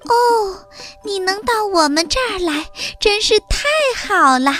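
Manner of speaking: high-pitched delighted welcome; bubbly, high storybook mouse voice; overjoyed country mouse. A narrator's reading. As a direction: greet a friend with great joy. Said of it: "高兴极了".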